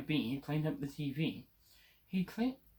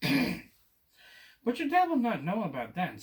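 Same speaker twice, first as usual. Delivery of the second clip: slow, higher, sly reassurance; slow it down like a sly cat; 6 semitones higher, 4 dB louder, slower than usual. Acted. Cat assures boy dad won't know, slow and sly.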